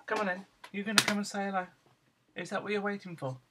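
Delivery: coaxing pet talk. Real, not acted. Owner inviting waiting dog inside, coaxing.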